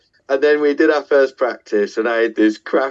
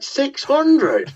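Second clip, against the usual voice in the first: high, disbelieving "Six hundred?"; shocked question; 14 semitones higher than usual. Retold or imitated. Hearing from promoter Tim about the capacity, shocked disbelief. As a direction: echo the number back in alarm. Reacting to the venue size.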